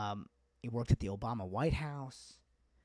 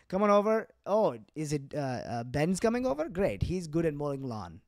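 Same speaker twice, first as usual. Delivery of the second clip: bright, higher eager parents; parents' voice; 3 semitones higher, 3 dB louder than usual. Retold or imitated. Parents greeting a kid's friend, mock eager. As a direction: cheerfully welcome the guest, already plotting chores. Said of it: "they would be like".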